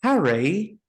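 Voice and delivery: "Harry" in a classy Englishman's accent, rising at the end; classy English accent. Shown as a demonstration. Teaching the classy Englishman accent with "Harry". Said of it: "a classy Englishman is to say".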